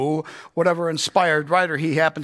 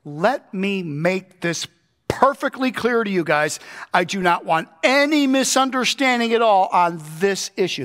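emphatic Paul; 3 semitones higher than usual. Retold or imitated. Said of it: "Paul is saying".

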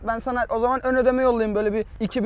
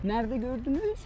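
woman's voice; 8 dB quieter than usual. Pretend. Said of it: "Kadın sesi yapacağım arkadaşlar".

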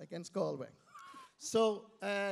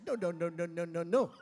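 imitated firm refusal; 7 dB louder than usual. Voicing dance partner's correction.

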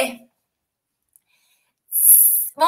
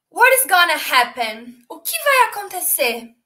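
dramatic suspense. Acted. Teacher teasing the class about Pinocchio's fate, gasping. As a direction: gasp then ask it breathlessly.

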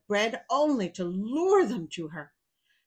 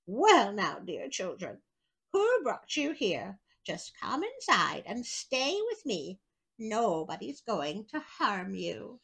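a hint of a coaxing old woman, slow; lightly voiced witch luring them in; sweet-talking old witch; slower than usual. Old witch coaxing the lost children inside, lightly voiced. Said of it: "the old woman wagged her head and said".

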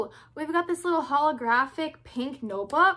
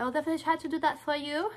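quick sing-song imitation of "I'll definitely try to do that for you"; quick mock replay of her own awkward line; 3 semitones higher, much faster than usual. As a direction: parrot your own odd phrasing, fast. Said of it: "Why did I say it like that?".

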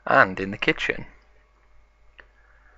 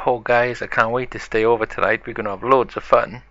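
quick, eager rush of words; more excited; 4 dB louder than usual. Acted. B two arrives for the sleepover, more excited. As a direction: gush along with mild excitement. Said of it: "more excited than B one".

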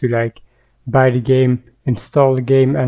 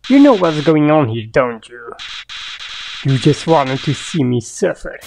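Flowey. Acted. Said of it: "I nearly didn't avoid him this time".

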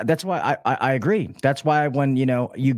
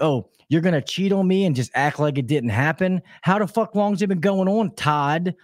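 raised-pitch mock accusation; wife coming in hot; 5 semitones higher than usual. Wife to husband about cheating, hot mock accusation. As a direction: imitate a wife confronting her husband. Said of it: "she came in hot".

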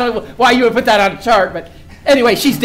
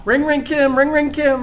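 imitated phone ring. Voicing a ringing phone.

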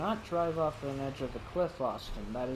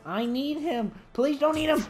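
desperate plea; 8 semitones higher than usual. Real, not acted. Begging dinosaur not to eat.

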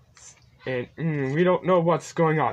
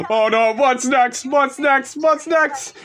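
panicked; 4 semitones higher, 4 dB louder than usual. Real, not acted. Panicked repeated question.

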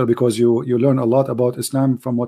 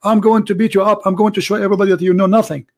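higher, taunting mock challenge voice; boastful Muslim challenger; 7 semitones higher, faster than usual. Caller mimics a boastful challenger calling in, higher and taunting. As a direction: play the cocky caller daring him on air.

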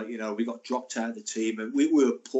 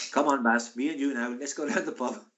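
badly faked Welsh with an Indian-sounding lilt; botched Welsh accent, sounding Indian. Teammate coaxing his pal to the pub, Indian-sounding Welsh accent. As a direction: attempt at South Wales lilt drifting into Indian. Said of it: "that's an Indian accent".

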